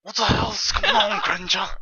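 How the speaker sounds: unsure sneering Draco voice; half-hearted Draco impression; attempt at Draco. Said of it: "I don't know how to do Draco".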